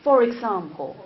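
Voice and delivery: "For example" linked as "fo-rexample"; connected speech. Shown as a demonstration. Teacher repeating the linking rule for students, connected. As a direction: carry the r of "For" into "example". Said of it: "have you noticed that?".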